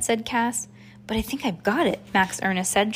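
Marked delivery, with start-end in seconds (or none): 1.1-2.0 through gritted teeth. Acted. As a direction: keep the jaw shut and push the words out. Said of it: "trying to talk through his teeth".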